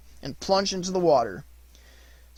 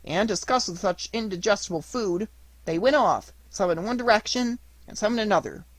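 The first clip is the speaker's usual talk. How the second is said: higher, louder mischievous puppet voice; cheeky puppet Pinocchio; 4 semitones higher, 3 dB louder than usual. Acted. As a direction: boast it like a saucy wooden boy.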